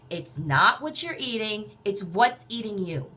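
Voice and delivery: loud, slow, punched emphasis; Richard's class motto. Retold or imitated. Richard telling his exercise class, slow emphatic motto. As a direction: drive the motto home slowly and forcefully. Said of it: "he would say in class".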